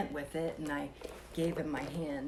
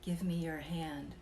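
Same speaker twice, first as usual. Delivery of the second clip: slow, a hint of a trance; a touch of a sleepwalker's request; lightly voiced sleepwalking husband. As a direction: say it slowly as if half asleep. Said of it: "he said".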